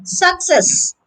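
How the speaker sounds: Success with the weight on CESS; careful "Success", stressed at the end; stress on second syllable. Shown as a demonstration. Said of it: "the stress is on the second syllable".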